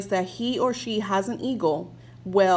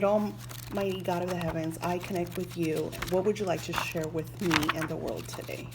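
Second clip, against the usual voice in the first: prayer; 4 dB quieter than usual. Retold or imitated. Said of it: "I said".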